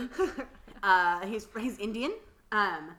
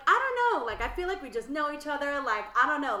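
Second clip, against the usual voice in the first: high-pitched retold reluctance; 6 semitones higher, 3 dB louder than usual. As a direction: hedge it in a raised, hesitant whine. Retells her reluctant reply, high.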